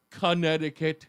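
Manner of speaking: "Connecticut" attempted deliberately; "Connecticut" said as a set-apart attempt; careful pronunciation. Shown as a demonstration. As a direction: try "Connecticut" as corrected, word by itself. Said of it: "I have to fix my mouth to say".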